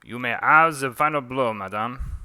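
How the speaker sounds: mild mock-French accent; theatrical French-accented taunt. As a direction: play a duelist with a light French accent. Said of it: "Forgive my French accent".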